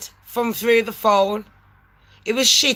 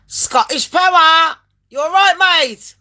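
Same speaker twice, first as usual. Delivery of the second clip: call centre voice; 5 semitones higher, 3 dB louder than usual. Retold or imitated. Phone agent voiced in story.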